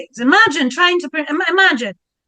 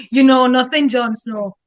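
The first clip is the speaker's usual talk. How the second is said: Jon Snow catchphrase in a French accent; French-accented mock-dramatic catchphrase. Shown as a demonstration. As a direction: say it with a French lilt. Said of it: "With a French accent?".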